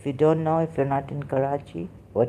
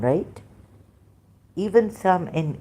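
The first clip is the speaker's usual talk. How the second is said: usual speaking voice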